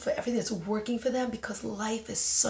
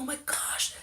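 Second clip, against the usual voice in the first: breathless whispered thought; 4 semitones higher, 6 dB quieter than usual. Retold or imitated. Thinking to herself on the bus, whispered. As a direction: hush it to yourself in awe. Private thought after near-death.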